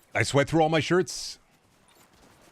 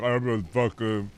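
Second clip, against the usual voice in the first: mock chud; 3 semitones lower, slower than usual.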